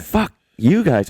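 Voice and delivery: high, drawn-out "fuck you" gripe; mock exasperation. Sculptor griping about rich artists, mock exasperation.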